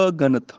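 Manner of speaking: ਅਗਣਤ as "a—ganat"; separated prefix. Shown as a demonstration. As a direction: split ਅਗਣਤ after the short a. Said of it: "ਅਗਣਤ ਪੜ੍ਹਨਾ ਵੈ". (ਅਗਣਤ ਨੂੰ "ਅ-ਗਣਤ" ਬੋਲੋ)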